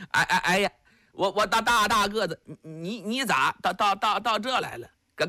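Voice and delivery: simple giant stammering on every syllable; lightly voiced stammering giant urging his friend to flee; stammering Li Yuanba. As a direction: repeat each syllable like a dim-witted strongman. Li Yuanba stammers to Yuwen Chengdu.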